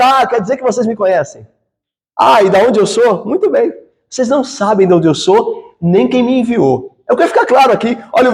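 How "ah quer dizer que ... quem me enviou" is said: dry, sarcastic mock agreement; teasing irony, mildly voiced; ironic reply. Shown as a demonstration. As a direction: let the irony bite, then turn firm. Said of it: "mas ironicamente está afirmando".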